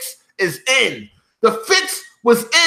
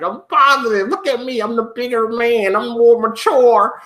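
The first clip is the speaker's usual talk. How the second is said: mocking smug.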